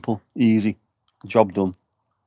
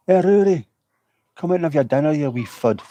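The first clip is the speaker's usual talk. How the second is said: put-on calling a child in; 6 semitones higher than usual. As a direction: holler the kid home from the doorstep.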